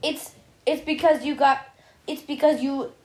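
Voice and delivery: put-on playful Russian accent on the villain line. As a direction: ham up a Russian spy accent. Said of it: "I had to do a Russian accent".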